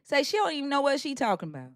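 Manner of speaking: natural Southern accent as a model line. Shown as a demonstration. Host coaching an Australian to copy her, Southern accent. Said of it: "just talk like me".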